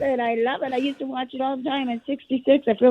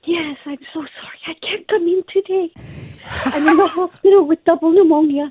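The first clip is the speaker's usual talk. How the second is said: call in sick voice; 3 semitones higher, 8 dB louder than usual. Pretend. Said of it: "Is this your call in sick voice".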